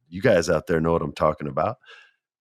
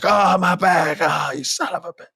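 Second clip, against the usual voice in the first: high, hammed-up wail of back pain; mock agony, much higher pitch; pained groan; 10 semitones higher than usual. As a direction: cry out like your back just snapped. In pain after the backbreaker.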